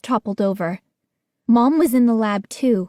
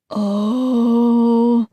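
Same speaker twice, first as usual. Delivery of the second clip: moan. A narrator's reading. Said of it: "A moan escaped my throat".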